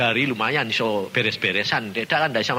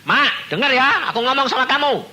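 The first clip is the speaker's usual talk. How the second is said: loud, insistent address at the bedside; firm call; 10 semitones higher, 7 dB louder than usual. Retold or imitated. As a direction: speak up so the sleeping one hears. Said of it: "Saya bilang".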